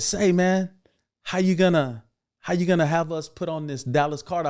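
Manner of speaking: mock protest at the boss; indignant complaint. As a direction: call him out, half laughing, half offended. Confronting the director on set.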